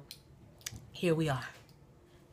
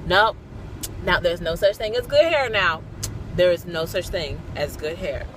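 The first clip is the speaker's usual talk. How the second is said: firm correction. Retold or imitated. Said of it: "And then I said".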